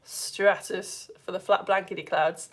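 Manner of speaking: slow, listless stratus; bored voice. Shown as a demonstration. Teacher recapping the flat blankety clouds, bored drawl. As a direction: drag it out with boredom. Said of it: "in the most bored voice you possibly can".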